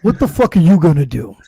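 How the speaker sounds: imitated punchy retort with a little push; retold comeback. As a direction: act out firing the taunt back. Throws the same challenge back.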